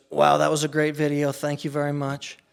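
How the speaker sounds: playing the president complimenting a video; Trump impression. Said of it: "with your impersonation".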